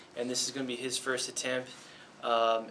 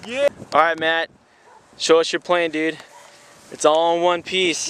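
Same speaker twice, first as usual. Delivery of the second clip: much louder, upbeat call-out; loud and pleased; 4 semitones higher, 14 dB louder than usual. Real, not acted. Asking the pilot to show his plane, loud and pleased. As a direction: announce it proudly to everyone.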